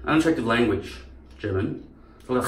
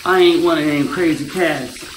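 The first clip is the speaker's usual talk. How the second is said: a light take on a movie tough guy, louder; Marlon Brando; 4 semitones higher, 5 dB louder than usual. Acted. Speaker apes an old biker movie star, Brando impression. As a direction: play a loud old-film biker rebel. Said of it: "interesting to hear Marlon Brando's voice".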